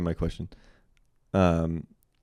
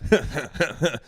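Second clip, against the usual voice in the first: lizard laugh; 6 semitones higher than usual. Pretend. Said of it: "you doing a billionaire, like, lizard laugh".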